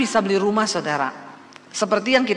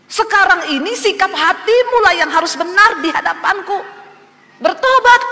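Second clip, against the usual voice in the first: much higher, loud, commanding rebuke; voice of God; 9 semitones higher, 5 dB louder than usual. Retold or imitated. God rebuking her for threatening Him, high and commanding. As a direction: thunder the call to repent. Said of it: "Tuhan bilang".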